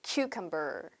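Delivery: cucumber said clearly as "kyu-kam-ber"; model word. Shown as a demonstration. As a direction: model cucumber for the class to repeat. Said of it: "한 번 더". (cucumber를 또박또박 시범 발음)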